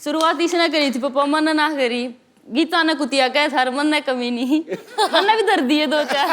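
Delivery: film line in native Haryanvi; lightly acted Haryanvi daughter, laughing near the end; original heroine's version. Shown as a demonstration. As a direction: recite it as the real wrestler, amused. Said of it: "वो अगर बोलेंगी तो कैसे बोलेंगी".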